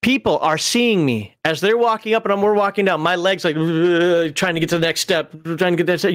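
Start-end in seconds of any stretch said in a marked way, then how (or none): 3.6-4.3 wobbly voiced shudder noise; imitated shaking. Climber's legs shaking on the way down, imitated shudder. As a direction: mimic trembling legs with a shuddering sound. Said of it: "I am shaking like I am epileptic".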